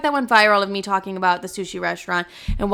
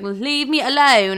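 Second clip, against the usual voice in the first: drawn-out, higher mock plea; exasperated plea; 4 semitones higher, slower than usual. Telling clingy exes to back off, exasperated plea. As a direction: plead to be left alone, stretching it out.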